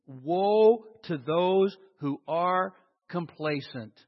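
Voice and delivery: slow, spaced-out scripture quote; measured, deliberate pronouncement; solemn warning. Acted. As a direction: read the warning out word by word. Preacher solemnly quotes a warning verse.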